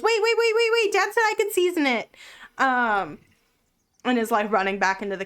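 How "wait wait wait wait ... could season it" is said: put-on excited kid. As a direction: blurt it out like a kid racing to the kitchen. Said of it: "Theo kinda tears through and goes".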